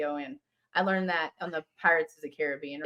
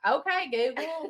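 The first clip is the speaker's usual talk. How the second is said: slow Southern drawl on okay; drawn-out country Okay, Google; country accent; 6 semitones higher, slower than usual. Retold or imitated. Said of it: "mine sounds country".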